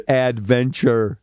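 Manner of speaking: slow, weighty "Adventure."; dramatic motto reveal. Shown as a demonstration. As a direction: announce "Adventure." like a grand motto. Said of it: "Here's my motto, John. Are you ready?".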